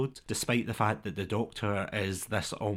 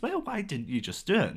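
imitating the Doctor; 11 semitones higher than usual. Doctor answering as mind reader.

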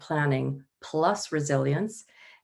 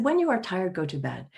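gentle melodic imitation; 3 semitones higher than usual. Retelling the guru's bedtime advice, in a lightly imitated gentle voice. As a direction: mildly mimic a kind old teacher's soothing advice. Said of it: "this lovely melodic voice".

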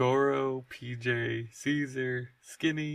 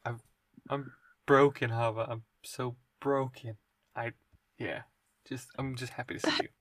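halting, softly spoken sorrow; broken and subdued; 4 dB quieter than usual. Acted. P J hugs Hava back, subdued and faltering. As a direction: let the words fail, quiet and understated. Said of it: "and he's like".

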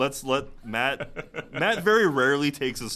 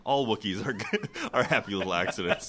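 laughing. Real, not acted. Laughing through joke.

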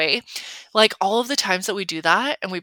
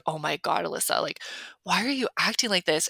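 hushed self-scolding; 5 dB quieter than usual. Retold or imitated. Scolding herself in inner voice.

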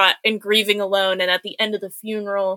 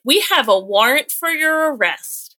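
raised-pitch mock police announcement; mock police officer; 5 semitones higher than usual. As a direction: lightly play an officer announcing an arrest. Acting out police at the door.

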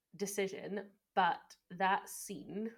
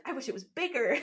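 laughing quote; 7 semitones higher, 6 dB louder than usual. Retold or imitated. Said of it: "he's like".

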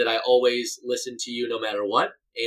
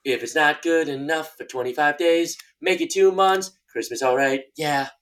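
hammed-up ad pitch; 3 semitones higher, slower than usual. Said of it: "this is the worst one ever".

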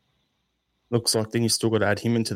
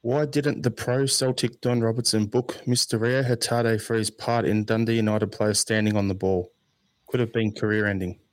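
sarcastic. Acted. Reading a listener's question to co-hosts, sarcastic. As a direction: read it out with dry mock seriousness. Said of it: "The sarcasm".

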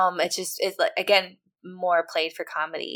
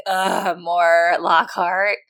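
drawn-out mock-exasperated groan; eye-rolling annoyance; 4 dB louder, much slower than usual. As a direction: groan it slowly, as if rolling your eyes. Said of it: "roll my eyes and be like".

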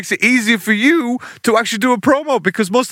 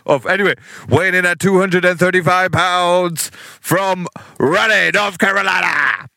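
ring announcer; slower than usual. Pretend. Ring announcer reintroduces wrestler.

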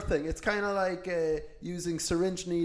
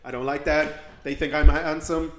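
lightly voiced Trump insinuating; hint of Trump bragging; Trump impression. Host gossips about the next act as Trump, mild Trump voice. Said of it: "impressions on the podcast".

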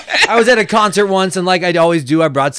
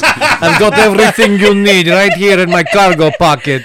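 mock Bosnian accent; put-on Bosnian accent, shady salesman; foreign accent. Bosnian traveler offering pocket contents at the border, mock accent. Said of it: "the guy's like".

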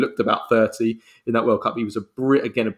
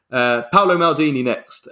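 breathless, snatching air between words; winded from rattling through the list; out of breath; 4 semitones higher, 4 dB louder than usual. Real, not acted. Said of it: "I'm getting out of breath here".

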